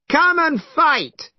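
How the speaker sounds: high, slow, loud war cry; shouting challenge. Acted. Monkey waves his cudgel at the dragon, shouting challenge. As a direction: call him out to fight. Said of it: "shouted Monkey".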